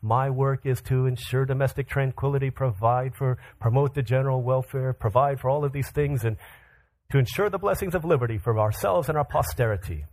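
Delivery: measured, mildly official recitation; lightly voiced presidential speech; formal address. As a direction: recite it like an official statement of duties. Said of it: "in his formal address says".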